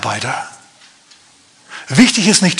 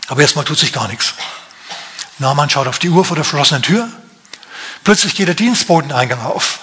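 ordinary talk, nothing marked

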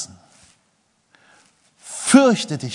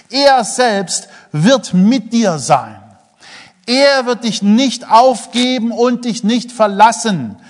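louder, slow and solemn proclamation; preaching scripture; 6 semitones higher, 6 dB louder, slower than usual. Acted. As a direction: proclaim the verse slowly and loud. Preaching scripture with full force. (kraftvoll und langsam verkündet)

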